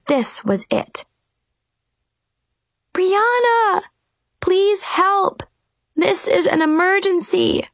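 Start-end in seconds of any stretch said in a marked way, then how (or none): 2.9-7.7 higher, urgent whispered call; desperate whisper shout. A narrator's reading. Girl calling her fairy godmother in desperation, urgent hushed call. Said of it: "I whisper shouted in desperation".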